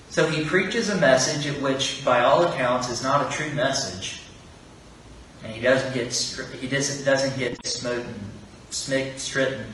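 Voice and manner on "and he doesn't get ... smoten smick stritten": stumbling over the word, restarting; real fumbled restarts, quieter; tongue-tied stumble. Real, not acted. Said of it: "I'm getting tongue-tied here".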